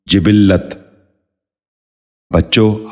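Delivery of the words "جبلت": جبلت said "jibil-lat", with short i in the first two syllables; short i twice, doubled l in جبلت; correct pronunciation. Shown as a demonstration. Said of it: "دوبارہ سنیے".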